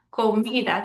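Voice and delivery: Comida with MI stressed; stress on second-to-last syllable. Shown as a demonstration. Teacher repeating example, Comida stressed on MI. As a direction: lean on co-MI-da's middle. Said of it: "that's the second to last syllable".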